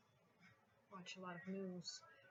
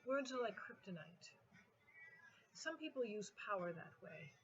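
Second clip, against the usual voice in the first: measured poetry reading with a punched opening on each image; poem recitation. Acted. Poet reading to an audience about words and power, measured recitation. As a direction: recite in repeating waves, each refrain easing off.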